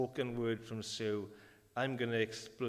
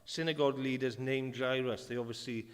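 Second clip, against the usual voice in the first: lightly raised scripture reading. Acted. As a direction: read the passage to the church. Reads scripture aloud.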